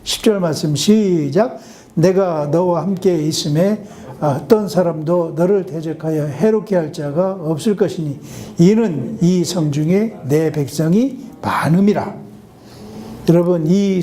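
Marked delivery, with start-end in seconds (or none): 1.9-12.2 slow, measured Bible reading; preacher reading scripture aloud. Acted. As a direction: read the verse slowly to the congregation.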